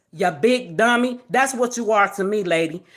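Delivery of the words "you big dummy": a light Fred Sanford impression, barely changed; lightly imitating Fred Sanford scolding his son. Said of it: "in my Fred Sanford voice".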